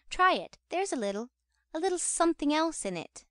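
lightly voiced matron, pitch leaping up on the urging; coaxing matron. A narrator's reading. Mrs. Corney offering the beadle her medicine, mildly coaxing. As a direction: coax with a hint of a coy lady.

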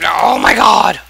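loud, high oh my god; panicked exclaim. Real, not acted. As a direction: blurt it in panic. Being hit by mob.

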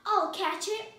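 high, loud eager cry; volunteer with loud excitement. A narrator's reading. Amelia Bedelia about to jump after the fish, eager.

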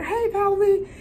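imitating mom. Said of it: "She's like".

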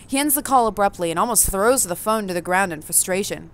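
even, measured narrator read; story narration. A narrator's reading. Reading the game's narration to the audience, evenly. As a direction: tell the player what they see and feel.

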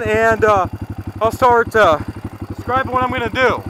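talking while pulling a helmet on; putting helmet on. Real, not acted. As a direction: helmet going over the head mid-sentence. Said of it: "Let me put my helmet on".

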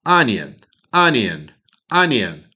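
loud, clear "Анієн" practice; repeat drill. Shown as a demonstration. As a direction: drill "Анієн" for students to echo. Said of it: "повторяйте таким чином".

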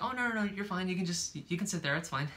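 lightly imitating his eager reassurance; quoting him. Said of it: "then you're like".

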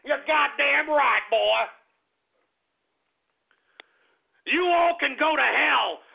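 strut it like a swaggering Texas patriot; a host rallies listeners with Texas pride, hammed-up; proud Texan rant.

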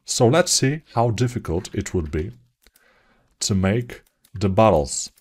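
attempted American accent through a Slavic one; lightly put-on American English. Shown as a demonstration. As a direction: try talking like an American. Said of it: "I'm talking like an American now".

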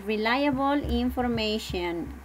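"reliable information" repeated slowly and clearly; slow teacher repeat. Shown as a demonstration. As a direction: spell out "reliable" slowly for the class. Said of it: "Ajá". ("reliable information" dicho despacio y claro)

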